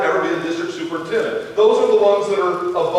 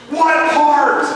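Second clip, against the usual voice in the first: put-on loud child whisper; 6 semitones higher, 4 dB louder than usual. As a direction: push it out like a kid trying to whisper. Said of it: "That's his whisper".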